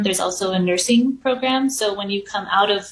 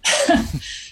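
shaky sigh; 9 semitones higher than usual. Real, not acted. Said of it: "try not to cry".

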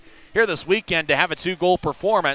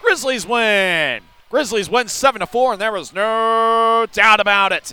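excited win call; 5 semitones higher, 3 dB louder than usual. Real, not acted. Final result call.

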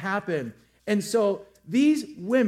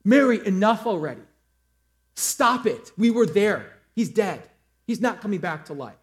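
mad disciple; 5 dB louder than usual. Retold or imitated. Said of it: "I would be mad".

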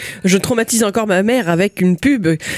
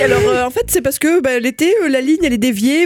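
excuse to her daughter; 6 semitones higher than usual. Retold or imitated. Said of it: "Je dis".

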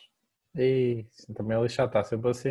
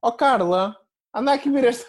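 excited; 8 semitones higher than usual. Retold or imitated. Dentist calling colleagues over.

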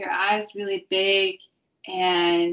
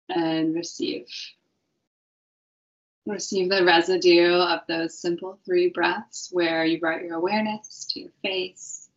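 guided meditation. Acted.

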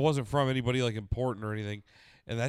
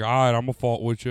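put-on quoting the kid's catchphrase; imitating Gavin; 6 dB louder than usual. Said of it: "it's the kid that's like".

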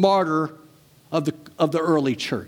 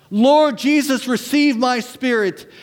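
calling out; 5 semitones higher, 3 dB louder than usual. Acted. Stephen calling out to the Lord while being stoned, raised calling voice. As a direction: cry it out as a dying prayer. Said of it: "he called out".

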